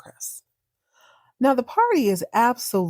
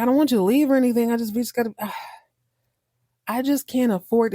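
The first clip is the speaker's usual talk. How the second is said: stammering nervously; 3 semitones higher, much faster than usual. Retold or imitated. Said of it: "he's, like, stutter stepping".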